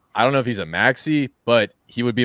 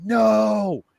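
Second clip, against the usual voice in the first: drawn-out, high-pitched mock yell; retold yell; 12 semitones higher, 5 dB louder than usual. Host retelling his yell after a mining mistake, mock screaming. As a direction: re-enact yelling out in dismay, louder and higher. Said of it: "I started screaming. I started yelling".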